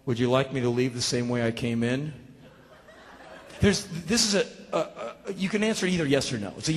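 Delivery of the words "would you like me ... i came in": calm polite question. Retold or imitated. Burglar's calm, absurd question.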